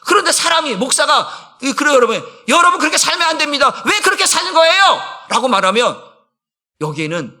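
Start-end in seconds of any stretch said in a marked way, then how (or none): 2.5-5.0 higher, louder mock rebuke; scolding pastor. Pastor acting out a preacher rebuking his flock, raised and louder. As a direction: scold the congregation with raised pitch. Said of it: "감정이 표현되고 언어가 달라져서".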